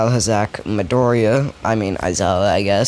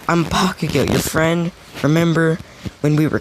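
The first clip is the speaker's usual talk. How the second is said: put-on girl's voice; 6 semitones higher than usual. Bakugo voiced as girl.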